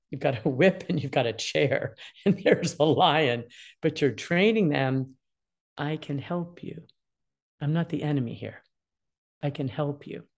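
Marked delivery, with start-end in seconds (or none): 5.8-10.3 put-on calm parent easing an angry teen; soothing parent. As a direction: talk the kid down gently. Parent soothing an upset child.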